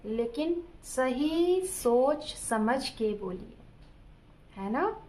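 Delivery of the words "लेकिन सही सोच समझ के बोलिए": slow, weighty delivery; thoughtful advice. Shown as a demonstration. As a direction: measure every word. (सोच-समझकर, धीरे बोलना)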